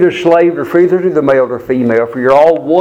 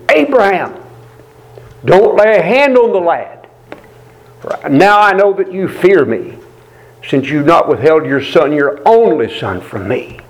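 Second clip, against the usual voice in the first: angel calling out; 3 semitones higher than usual. Acted. Angel of the Lord calls to Abraham, a raised call.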